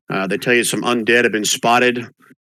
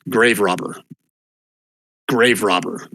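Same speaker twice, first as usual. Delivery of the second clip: a ghost hissing from the dark; ghostly whisper. Acted. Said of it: "whisper at you".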